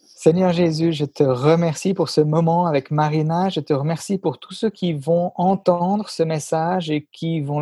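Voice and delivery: earnest spoken prayer in French. Acted. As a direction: pray it from the heart.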